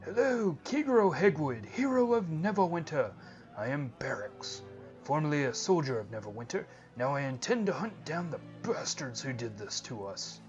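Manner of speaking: hearty soldier hailing a hero, loud and high then settling; Barracks. Acted. Soldier greets the hero and vows revenge, hearty then determined. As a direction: call out the greeting, then declare the vow firmly.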